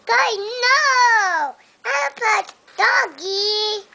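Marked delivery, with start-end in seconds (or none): 0.1-1.6 crying no. Real, not acted. Child crying out at dog.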